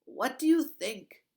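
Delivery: loud, high sarcastic retort; scoffing guard. A narrator's reading. Bearded guard mocks the other, loud sarcasm. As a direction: throw it back sarcastically.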